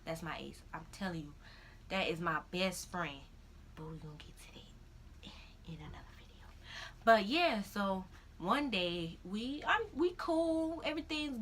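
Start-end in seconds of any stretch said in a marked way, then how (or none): 3.8-6.5 near-whispered, confidential aside; quick confidence under the breath; hushed aside. Real, not acted. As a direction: drop right down to a whisper. Aside teasing a later video.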